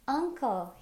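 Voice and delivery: a lightly acted glad cry. A narrator's reading. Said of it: "he cried out".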